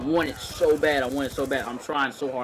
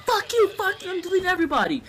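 furious yell; 4 dB louder, faster than usual. Retold or imitated. Retold rage at teammates.

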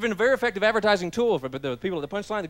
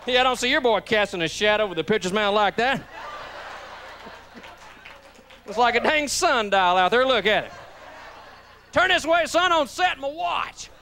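mocking parent; 4 semitones higher than usual. Another parent mocking in stands.

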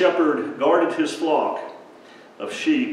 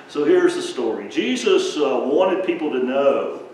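lively storybook narration; animated children's sermon storytelling; reading to children; 3 semitones higher than usual. Acted. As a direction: read it like a bedtime story for kids.

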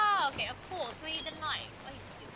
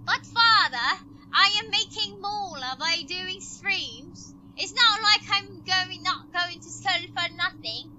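mock-pleading with a parent, drawn out; protesting to father; 2 semitones higher, 6 dB louder, slower than usual. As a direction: plead your case loudly and slowly.

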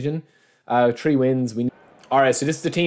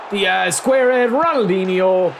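high, loud yell at the attack; roaring the players on as the goal comes; excited shout; 8 semitones higher, 5 dB louder, slower than usual. Real, not acted. Gamer yelling at his team as it scores, excited shout. Calling a goal while playing.

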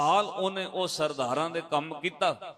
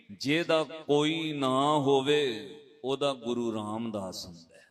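gentle comfort; 4 semitones lower than usual. Retold or imitated. Elder comforts the boy, repeated.

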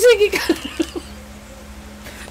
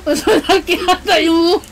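laughing. Real, not acted. Laughing at partner's face.

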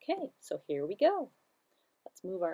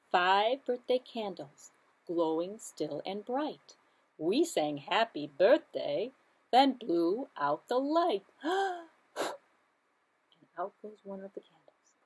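sing-song nursery rhyme; slower than usual. Shown as a demonstration. Counting rhyme for children.

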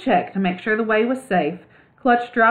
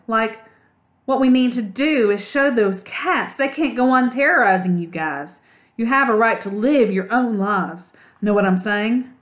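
lightly voiced laid-back dude mouse, higher; a hint of a slangy young mouse pitched up; cool surfer mouse; 3 semitones higher than usual. Ragweed urging the other mice to stand up.

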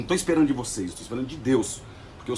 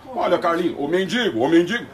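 sneering "ô mendigo", a touch higher; mild mock scorn on "mendigo"; 4 semitones higher, 3 dB louder than usual. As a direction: imitate the reporter's contempt, lightly. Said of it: "perceba a entonação".

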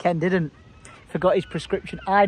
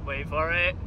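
building suspense; slower than usual. Real, not acted. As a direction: tease the reveal, lifting each repeat. Builds up to the border announcement.

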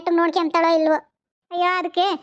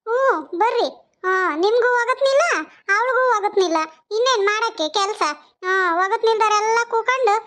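put-on higher, sneering old mother-in-law voice; a raised, needling mother-in-law taunting the neighbours; 4 semitones higher than usual. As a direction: jab at the daughter-in-law with mock sweetness.

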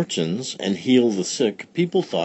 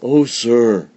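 put-on louder, anxious old woman; old village woman; 3 semitones higher, 7 dB louder than usual. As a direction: plead politely. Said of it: "said Befana".

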